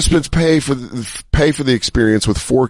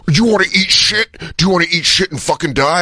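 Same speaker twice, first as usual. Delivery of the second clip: menacing actor voice; 3 semitones higher, faster than usual. Retold or imitated. Imitating a rough haunted-house actor.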